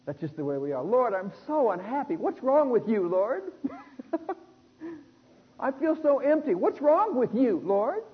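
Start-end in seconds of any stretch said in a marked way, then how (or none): 0.8-5.6 a mock-whining Martha, pitched high and accusing; whiny complaint. Martha complaining to the Lord, mock whine. 5.6-8.0 high, drawn-out mock complaint with a laugh; mock whine. Martha blaming the Lord, hammed-up whine. Whiny Martha, louder take.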